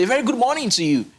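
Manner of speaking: greeting with pitch lifted high on key words; lively high greeting. Shown as a demonstration. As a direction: sing out the greeting with bright tonality. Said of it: "if I'm saying something".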